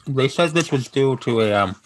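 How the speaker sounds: talking while munching chips; words around a mouthful of chips; crunching chips. Real, not acted. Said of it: "sorry, I'm, I'm eating chips now".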